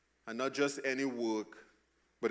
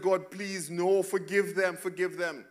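pleading Moses; 6 semitones higher, 3 dB louder than usual. Retold or imitated. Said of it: "Moses ran to God and said".

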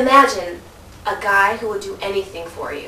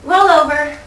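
command; 4 semitones higher, 7 dB louder than usual. Shown as a demonstration. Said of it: "I'll tell him to roll over".

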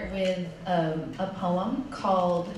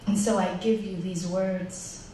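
measured spoken-word recital, phrases set apart by pauses; poetry reading. Acted. Poet reading a litany for the sea to an audience, solemn poetry recital. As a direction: recite it as a litany, each phrase falling at the end. Reads own poem aloud.

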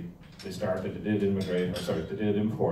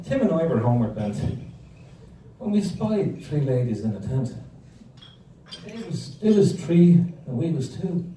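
higher, lilting comic recitation; performed higher-pitched comic verse; poem recital; 6 semitones higher, 4 dB louder than usual. Acted. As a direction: recite Paddy's verse up high for the punchline. Reciting Paddy's competition poem on stage.

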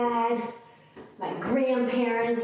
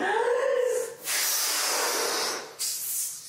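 blowing out hard; 13 semitones higher than usual. Shown as a demonstration. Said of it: "make it bigger".

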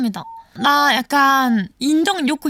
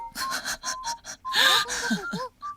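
high, soft whimpering sobs; quiet put-on weeping; mock sobbing; 10 semitones higher, 8 dB quieter than usual. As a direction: cry pitifully for yourself, half-joking. Pities herself, mock crying.

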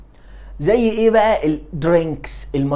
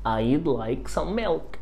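spelled out slowly, softer; very slow model sentence; 5 dB quieter, much slower than usual. Shown as a demonstration. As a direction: drag each word for the learner. Teacher models answer very slowly. (جملة بطيئة جدًا)

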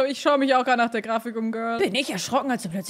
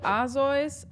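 ordinary talk, nothing marked

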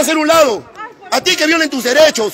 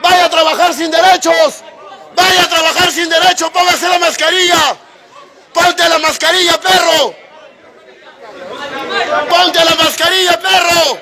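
furious shout. Real, not acted. Customer shouting his demand for his money, real angry yell. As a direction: bellow it at the whole bank.

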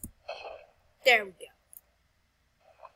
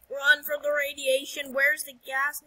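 慌张喊叫; 3 semitones higher, 5 dB louder than usual. Pretend. Fleeing radiation in the game.

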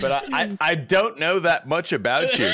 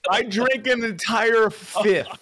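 tipsy, giggly and loose. Real, not acted. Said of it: "I'm so fucking drunk".

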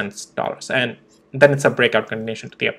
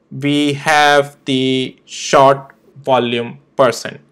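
slow, word-by-word "short volume person"; hard emphasis; much slower than usual. Real, not acted. Trader voicing his chart levels' warning, slow and emphatic. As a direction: space out "we have the short volume person" for weight. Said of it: "I'm emphasizing it quite hard".

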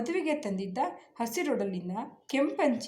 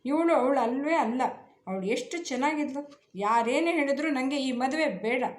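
loud, high, final-sounding refusal; firm refusal; 4 semitones higher, 4 dB louder than usual. Acted. Groom rejecting the bride before everyone, firm and loud. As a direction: refuse flatly, no room to argue. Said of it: "ಖಂಡಿತ ಸ್ವರದಲ್ಲಿ".

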